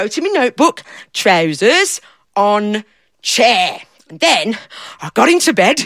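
a lightly voiced simple fella, eager and proud; daft fella. Storyteller playing the fella who lost himself, lightly voiced. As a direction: speak as the muddled daft man, pleased with himself.

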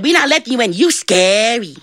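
put-on high, childlike refusal; scared little devils. Little devils keep John out, scared. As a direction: refuse in a high voice, dragging the end.

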